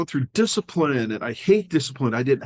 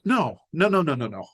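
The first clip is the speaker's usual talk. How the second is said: retold refusal; 3 semitones higher than usual. Refusing order to return burritos.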